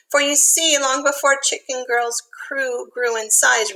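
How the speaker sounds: lilting storybook read-aloud; reading to children. A narrator's reading. Teacher reads a rhyming picture book to kids, lilting. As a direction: read the rhyme gently to little listeners.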